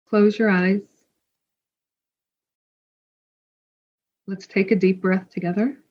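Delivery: calm meditation guide, long pauses between phrases; guided meditation. Real, not acted. Podcast host guides listeners into a full moon meditation, calm and spacious. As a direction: lead them gently inward, leaving space to breathe.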